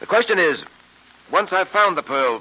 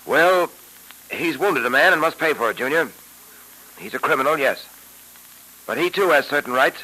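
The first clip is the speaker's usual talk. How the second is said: put-on old radio show. Old-time radio drama episode.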